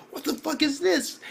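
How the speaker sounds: high, incredulous outburst; shocked reaction. Retold or imitated. Reacting to the giant spiked glove, shocked. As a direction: retell it high and flabbergasted.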